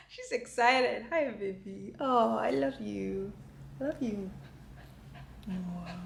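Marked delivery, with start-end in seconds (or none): 1.1-6.0 soft, hushed cooing to a pet; tender affection. Real, not acted. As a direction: murmur love to your dog. Cuddling her dog.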